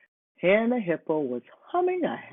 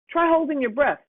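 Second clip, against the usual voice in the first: Homer suggesting; 11 semitones higher, 4 dB louder than usual. A narrator's reading. Homer advising.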